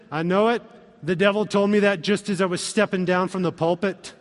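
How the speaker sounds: lightly Scottish quoted reply; Scottish accent. Acted. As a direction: slip into a slight Scottish accent. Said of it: "I went Scottish on that".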